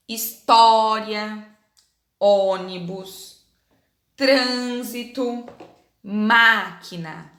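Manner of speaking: put-on each word drawn out slowly for children; slow clear reading. Shown as a demonstration. Teacher reading a word list slowly to children. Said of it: "embaixo nós temos".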